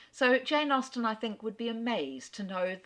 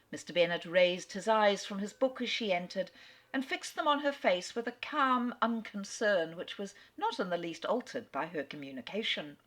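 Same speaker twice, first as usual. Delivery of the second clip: story narration; 2 semitones higher than usual. A narrator's reading. Reading a novel aloud.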